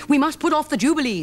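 the king deciding in sadness; lightly voiced grieving king; king speaking. A narrator's reading. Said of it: "said the king".

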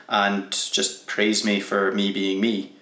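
slow, dry sarcastic request. Real, not acted. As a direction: ask for praise, tongue in cheek. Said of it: "I'm being quite sarcastic".

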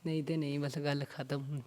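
quiet, sinking, on the verge of crying; close to tears. Real, not acted. Heartbroken guest closing the subject of his ex, close to tears. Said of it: "ਰੋਣ ਕਿਉਂ ਲੱਗ ਪਏ ਹੋ ਫਿਰ".

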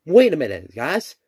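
ordinary talk, nothing marked

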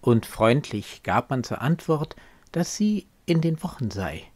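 expressive, measured verse reading; poem recitation. Acted. Reciting a poem about asking after the married beloved, expressive recitation. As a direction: recite the verse with lifted, lively pitch.

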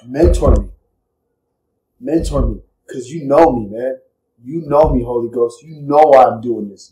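low, subdued prayer to a mentor; hushed, heartfelt request for guidance; earnest personal plea. Retold or imitated. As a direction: plead quietly and intimately, keeping it low. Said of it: "I tell Holy Spirit".

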